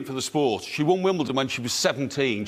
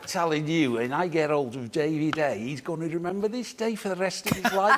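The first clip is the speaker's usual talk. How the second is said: put-on Merseyside accent. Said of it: "He's doing it".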